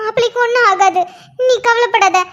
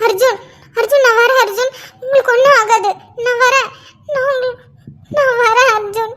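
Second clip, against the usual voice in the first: breaking, tearful cries of his name; sobbing call; 2 semitones higher than usual. Acted. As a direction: weep as you call out to him. Wife weeps calling injured husband. (அழுகையுடன் கணவனை அழைத்தல்)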